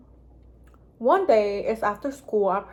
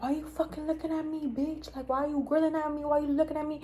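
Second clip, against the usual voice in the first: high-pitched, quick mock confrontation; mock ghetto bitch; 6 semitones higher, 4 dB quieter, faster than usual. Imitating the girl who demands why you looking, high mock attitude. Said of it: "that ghetto ass bitch that's like".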